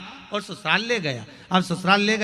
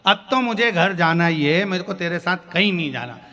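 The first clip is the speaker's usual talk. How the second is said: angry insistence; 5 dB louder than usual. Acted. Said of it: "दोनों में भयंकर लड़ाई हो गई".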